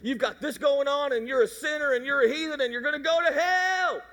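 imitating an old Mississippi pastor, a bit hammed-up; hellfire preacher. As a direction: thunder it at the sinners. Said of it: "He's saying".

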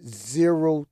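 slow, official statement tone; politician voice. Pretend. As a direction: announce it like a politician at a podium. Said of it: "you sound like a politician".

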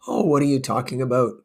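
ordinary delivery, nothing marked

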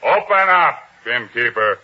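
sharp loud order through the door; calling out. Acted. Soldier repeating his call to the innkeeper, loud demand. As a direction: demand he open up now.

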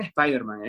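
"Spider-Man" as es-PAI-der-man; "Spider-Man" with a Spanish accent on the English word; half-English pronunciation. Retold or imitated. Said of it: "he escuchado que diga".

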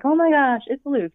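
overwhelmed gasp of recognition; teary excitement. Retold or imitated. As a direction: relive the tearful joy of the reveal. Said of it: "I'm crying because it's just like".

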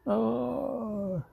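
high, drawn-out pretend yawn; big mock yawn sliding downward; fake yawn. Shown as a demonstration. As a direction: demonstrate a superhero yawn. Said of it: "I did a fake yawn".

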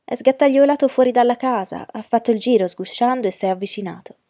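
high, loud, eager retelling; excited boy. A narrator's reading. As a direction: act out the sneaking with rising excitement. Ragazzo mima eccitato la scena. (ragazzo eccitato, voce alta e forte)

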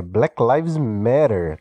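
"Black Lives Matter" said slowly in careful English, stress on "Lives"; English pronunciation. Shown as a demonstration. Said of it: "não é fã dos anglicanismos".

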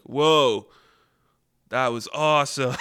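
awed cry with a laugh in it; thrilled whoa. Retold or imitated. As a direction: marvel at the blast, laughing. Character thrilled by explosion.

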